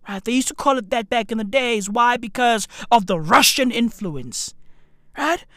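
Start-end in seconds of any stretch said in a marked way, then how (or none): none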